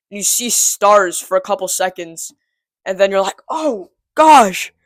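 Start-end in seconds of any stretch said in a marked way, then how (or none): 3.5-4.7 dazed. Retold or imitated. Dazed after the punch.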